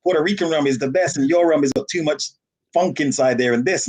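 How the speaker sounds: lightly voiced Puerto Rican rum lover, half-joking; Puerto Rican rum fan. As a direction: play the Puerto Rican insisting his rum is best. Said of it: "someone from Puerto Rico come in there and say".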